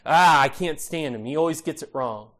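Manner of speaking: exasperated groan into a complaint; a brief show of exasperation; mock exasperation. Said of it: "Instead of becoming exasperated and say".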